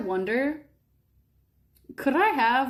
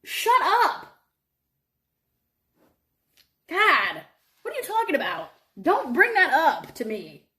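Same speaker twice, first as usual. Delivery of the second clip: mock annoyance; 4 semitones higher than usual. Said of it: "I was like".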